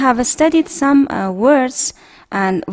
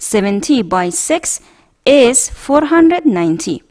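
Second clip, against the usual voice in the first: slow reading, short form "by"; slow model reading with by; much slower than usual. Shown as a demonstration. Teacher showing the short way to read multiplication, slow. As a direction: say "by" slowly in place of multiplied by.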